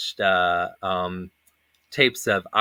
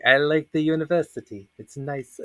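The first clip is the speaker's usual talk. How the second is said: a light put-on Middle Eastern accent, a bit higher; staying in character at the after party; 5 semitones higher than usual. At the after party, answering a guest in his stage accent. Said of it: "how I liked it here in America".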